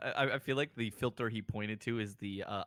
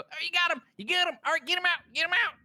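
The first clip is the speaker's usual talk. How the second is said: much higher, louder frantic cheering; excited yelling; 8 dB louder, faster than usual. Acted. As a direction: yell encouragement from inside the office. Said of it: "you hear him go".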